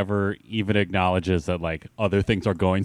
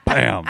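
rubber stamp thunk; 5 dB louder than usual. Pretend. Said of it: "What does a rubber stamp sound like?".

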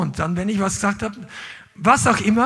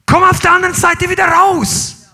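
higher, louder exhortation; preaching shout; 6 semitones higher, 6 dB louder than usual. Real, not acted. Preacher urging the church through darkness, full shout. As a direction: call them out of the valley.

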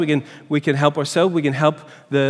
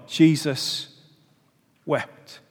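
"Jesus" falls, then "wept" drops much softer after a pause; a quiet, grieving repeat; solemn echo; 4 dB quieter, much slower than usual. Real, not acted. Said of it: "that little tiny verse".

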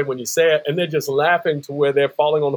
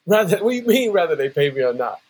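retold disbelief; faster than usual. Singer asking God how bills get paid, incredulous. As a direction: throw the condition back in mock protest. Questioning God's condition in disbelief.

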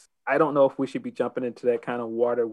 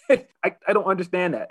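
laughing disbelief; 6 semitones higher, 3 dB louder, faster than usual. Real, not acted. Laughing disbelief at heel logic.

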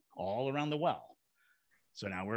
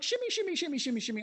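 high playful sing-song chant; faster than usual. Pretend. Friends shimmying up the chimney, high sing-song. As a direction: chant it like a silly climbing tune. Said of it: "we're like, shimmying up".

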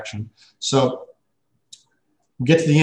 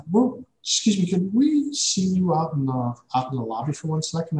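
lightly voiced polite receptionist, higher; a hint of a courteous office assistant, pitched up; polite scheduler; 6 semitones higher than usual. Receptionist pulling him out of the meeting, lightly voiced and higher.

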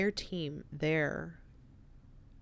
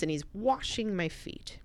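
whispered, softer, with awe; 3 semitones higher, 3 dB quieter than usual. Real, not acted. Recalling the guide washing her feet, hushed whisper. Moved, telling of foot washing.

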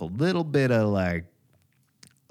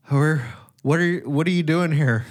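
put-on higher, louder confused kid voice; groggy son; 7 semitones higher, 4 dB louder than usual. Son woken for school, higher confused voice. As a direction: play the half-asleep boy, baffled. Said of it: "He's like".

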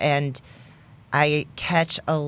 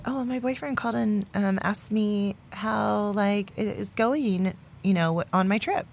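mocking; 5 semitones higher, 4 dB quieter than usual. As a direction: parody a starry-eyed girlfriend. Mocking friends' low standards.

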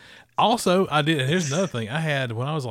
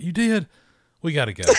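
imitating grandma's thick Southern accent, higher; grandmother's Southern accent; 7 semitones higher than usual. Grandmother hearing about the chitlins, in a higher, imitated thick Southern accent. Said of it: "she had a real thick Southern accent".

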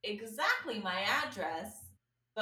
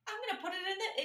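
a much higher, lightly put-on voice of a glitchy computer; mock system voice; 12 semitones higher, 3 dB louder than usual. Voicing the glitch that reroutes the order, lightly mocking. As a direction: play the dumb system switching the address. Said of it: "glitch in the system that literally goes".

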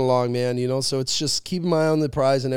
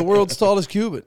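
emphatic; 5 semitones higher, 5 dB louder than usual. Real, not acted.

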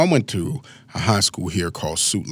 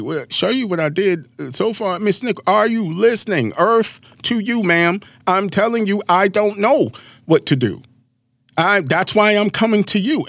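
put-on exasperated teen; 9 semitones higher than usual. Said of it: "like, screw my face up".

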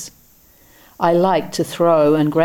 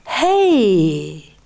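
lightly voiced lilting old man; bright glad call; old man hailing the drunk, joyously; 2 semitones higher than usual. A narrator's reading. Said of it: "strangely joyous, lilting quality".

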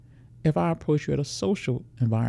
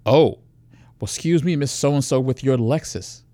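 sarcastic mock; 4 dB louder than usual. Predator mocks again.

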